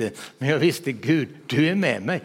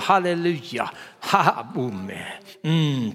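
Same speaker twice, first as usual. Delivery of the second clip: normal talking voice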